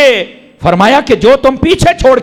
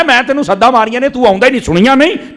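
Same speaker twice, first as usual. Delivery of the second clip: master calling servant; 7 semitones higher than usual. Retold or imitated. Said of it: "وہ فرمایا".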